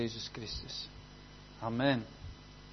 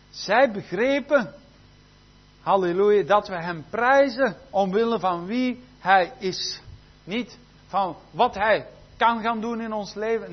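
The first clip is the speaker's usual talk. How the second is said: raised, emphatic pulpit voice; fervent preaching; 4 semitones higher, 7 dB louder than usual. Real, not acted. Preacher explaining why Paul and Silas praised, fervent emphasis. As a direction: punch the key phrases with conviction.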